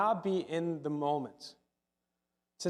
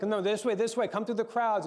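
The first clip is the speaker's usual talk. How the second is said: higher-pitched, hurried directions, lightly acted; urgent urging; 5 semitones higher than usual. Running father hurrying Jesus through the crowds, urgent. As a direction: urge someone along through a crowd.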